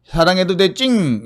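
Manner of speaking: put-on high cutesy baby voice; lisping baby talk. Shown as a demonstration. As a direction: coo it with a short tongue. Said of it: "혀 짧은 소리를 내면 되는 거군요".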